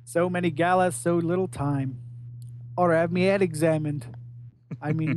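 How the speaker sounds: put-on lightly done Australian accent; gruff Aussie crook, lightly voiced; Captain Boomerang voice. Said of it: "every time you do Boomer's voice".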